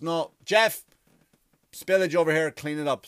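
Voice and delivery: a hint of a commanding store robot; bossy robot voice. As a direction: bark the order like a store robot. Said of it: "but the robot goes".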